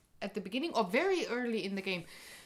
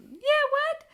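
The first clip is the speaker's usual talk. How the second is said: very high, loud squeak; squeaky high; 9 dB louder than usual. Shown as a demonstration. Wife showing how high she can go, squeaked. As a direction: shoot up to the top of the voice. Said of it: "I can go really high".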